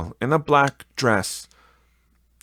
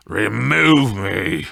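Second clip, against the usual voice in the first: loud, slow, anguished plea; exclaimed; 7 dB louder, slower than usual. Acted. Scrooge begging the Spirit to remove him, loud and anguished. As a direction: cry out to be taken away. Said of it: "Scrooge exclaimed".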